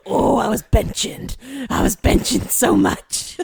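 breathy laughing words. Real, not acted. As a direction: laugh through it. Laughing while speaking.

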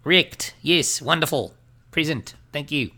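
a deliberately bad Australian accent, cheerful and over the top; terrible Australian accent as Bitlord. Podcast host accepts an award as Bitlord in a mock Australian accent. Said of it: "try to do a terrible Australian accent".

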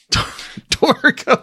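high, breathy whispered Torgo. Retold or imitated. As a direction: squeak out Torgo in a thin whisper. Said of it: "that's how that guy talks".

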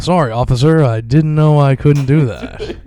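high, drawn-out mock white-guy voice; nerdy apology, slowing to a stretched finish; Dave Chappelle. Comic imitating a stand-up's bit, nerdy white voice. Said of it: "That's the Dave Chappelle".

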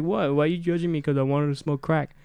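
innocent, teasing; playful girl voice. Retold or imitated. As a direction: play dumb and defensive. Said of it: "she was like".

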